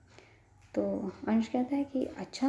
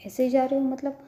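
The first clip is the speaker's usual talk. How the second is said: puzzled echo; 4 semitones higher, 6 dB louder than usual. A narrator's reading.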